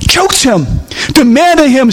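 normal talking voice

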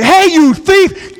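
slow, high call to the thief; confronting call. Pretend. Preacher teaching believers to confront the devil, high slow call. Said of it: "You get up and say".

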